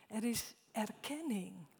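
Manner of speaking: ordinary talk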